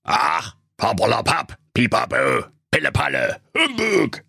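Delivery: grumpy miser out of arguments; grumbling. A narrator's reading. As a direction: grumble it away word by word. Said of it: "brummte er nur".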